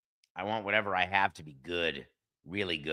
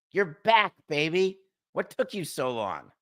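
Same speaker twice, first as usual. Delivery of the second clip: excited; 5 semitones higher than usual. Real, not acted. Coca assistant finally answers.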